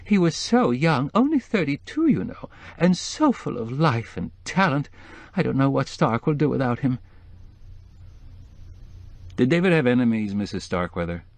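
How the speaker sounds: weeping voice, pitched high and shaky with tears; a widow's grief spilling over the phone; tearful, high. A narrator's reading. Grieving woman on the phone, voice high with tears. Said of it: "She burst into tears".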